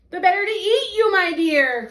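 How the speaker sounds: put-on the wolf springs at the girl with a loud cry; cried out. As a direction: pounce with the words. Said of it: "cried the wolf".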